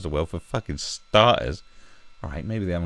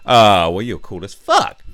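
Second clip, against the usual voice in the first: mock reply; 9 dB louder, slower than usual.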